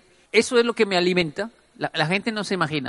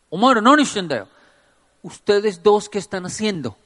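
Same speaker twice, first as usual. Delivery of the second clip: put-on scolding old man; 4 semitones higher, 4 dB louder than usual. Old Japanese man scolding them.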